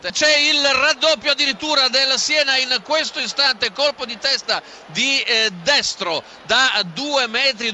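loud urgent goal flash; breathless italian goal commentary. Real, not acted. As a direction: blurt out the second goal loudly.

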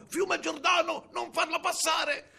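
high, loud, drawn-out holler; ogress shouting. A narrator's reading. Ogress ordering the river to block the girl, long high shout. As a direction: cry out high with long stretched vowels. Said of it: "l'orca gridò".

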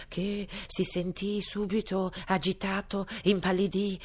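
ordinary delivery, nothing marked

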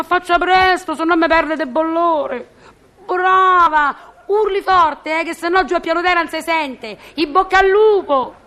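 mischievous doorkeeper urging a neighbour to yell; gleeful egging on. Acted. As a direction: cheer her on to make a scene. Eggs neighbour on to shout.

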